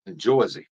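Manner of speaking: "Jersey" said "Jawzee", open aw, dropped r; Jersey pronunciation. Retold or imitated. Answering a viewer, saying "Jersey" as "Jawzee". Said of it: "That's how they say it".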